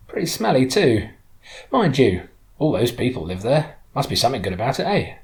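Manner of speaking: a hint of the chatty local driver; lightly voiced woman driver, frank. Local driver giving her view of London, lightly voiced, frank. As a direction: lightly play her frank, then conceding.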